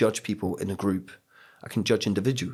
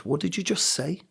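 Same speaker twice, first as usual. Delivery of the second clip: shocked teacher; 9 semitones higher than usual. Retold or imitated.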